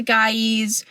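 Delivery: guys stretched into two syllables, "guy-eez". Real, not acted. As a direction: guys with an added "eez" ending. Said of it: "I always say guys".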